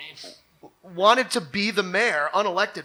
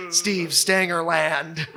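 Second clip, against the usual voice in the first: slow, laughing, building louder and higher; laughing riff; 4 semitones higher, 5 dB louder, much slower than usual. Real, not acted. Joking about the ex-official's theme park, slow laughing build. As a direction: stretch each name out through laughter.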